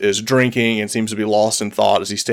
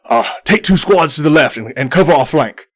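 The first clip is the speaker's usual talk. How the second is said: commanding order; 3 semitones higher than usual. Acted. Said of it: "he says".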